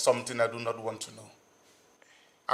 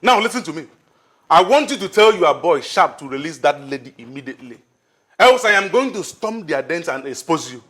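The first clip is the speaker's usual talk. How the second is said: stern threat; 3 dB louder than usual. Acted.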